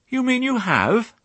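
dismayed mother dog; surprised. Acted. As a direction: gasp it in disbelief. Fly shocked by mud.

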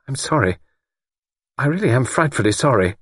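high-pitched, awkward apology; apologise, ill at ease; uncomfortably. A narrator's reading. Young woman apologises to older woman, uncomfortably. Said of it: "She said uncomfortably".

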